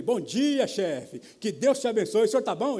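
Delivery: hearty greeting. Retold or imitated. Employee greets his shouting boss, heartily. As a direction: greet the boss with loud cheer.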